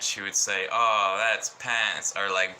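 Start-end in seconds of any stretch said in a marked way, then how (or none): 0.7-2.1 retold annoyance. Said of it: "every time she'd get mad".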